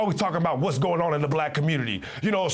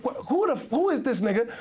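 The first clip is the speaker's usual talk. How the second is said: high, indignant mock Jamaican voice; Jamaican accent; 6 semitones higher than usual. Imagining Jamaicans scolding a lecturing outsider, mock Jamaican accent. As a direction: sputter like an offended Jamaican local. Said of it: "They'd be like".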